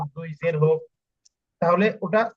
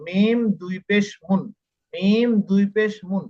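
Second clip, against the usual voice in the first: drawn-out spelling drill; slower than usual. Shown as a demonstration. Teacher repeats spelling drill for learners.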